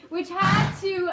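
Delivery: breaking into a laugh mid-line. Real, not acted. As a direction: giggle through the words.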